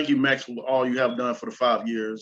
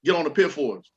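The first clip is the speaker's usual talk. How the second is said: mocking a host; 4 semitones higher, faster than usual. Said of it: "when people say".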